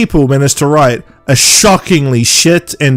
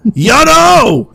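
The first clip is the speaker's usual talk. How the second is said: high hammed-up call of the name; mock yell; 12 semitones higher than usual. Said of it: "Jack's like".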